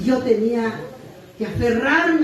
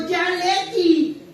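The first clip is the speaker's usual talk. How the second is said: stern sponsor's warning; 3 semitones higher, slower than usual. Retold or imitated. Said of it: "me agarró y me dijo".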